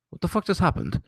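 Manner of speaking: can't believe what you just saw; retold shock at the TV; shocked disbelief. Shocked at the streak ending.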